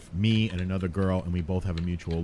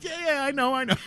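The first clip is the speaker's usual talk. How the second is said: dismissive. Retold or imitated. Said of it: "I was like".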